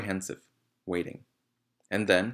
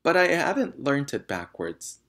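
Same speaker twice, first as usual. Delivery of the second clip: put-on anxious boy; 6 semitones higher, 5 dB louder than usual. Frightened boy protests.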